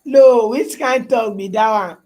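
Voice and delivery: excited. Real, not acted. Reacting to a viewer's pidgin.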